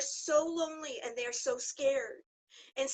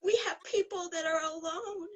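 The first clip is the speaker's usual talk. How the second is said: tearful; 4 semitones higher than usual. Real, not acted. Guest tearful about lonely patients.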